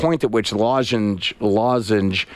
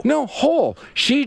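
excited; 14 semitones higher, slower than usual. Real, not acted. Amazed at a whole cucumber.

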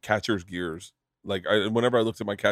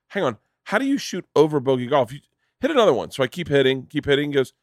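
higher-pitched mock bafflement; baffled disbelief; 4 semitones higher than usual. Club fitter doubting a golfer's score, baffled. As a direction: question it as if it makes no sense.

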